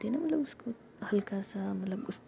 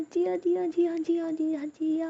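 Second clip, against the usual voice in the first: frantic repeated screams, much higher and louder; loud screaming; 9 semitones higher, 6 dB louder than usual. Acted. Ruhi feels something fall on her back and screams for Jiya. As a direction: shriek her name over and over. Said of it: "Ruhi जो है ना वो ज़ोर से चिल्लाती है".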